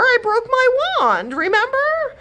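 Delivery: high, loud distressed plea; upset. Acted. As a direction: remind him in distress. Godmother upset about wand.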